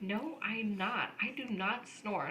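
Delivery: slow, soft, emphatic denial; retold denial. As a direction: deny it word by word, imitating a teenager. Retold teenage denial to parents.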